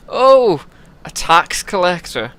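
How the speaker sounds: a bad, haughty English prince accent; lightly put-on English accent, aloof. Prince Ludin greeting the scribe, bad English accent. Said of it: "like my English accents".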